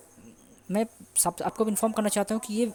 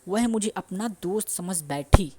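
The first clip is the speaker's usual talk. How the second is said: slow, louder example sentence; slow dictation; 8 dB louder, slower than usual. Shown as a demonstration. Teacher dictating the Hindi example to the class. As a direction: read the example out loud and slow. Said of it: "next example".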